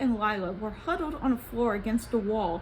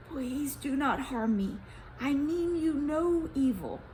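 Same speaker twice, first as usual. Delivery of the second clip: low and trembling; 3 semitones higher than usual. Acted. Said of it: "With a low and trembling voice".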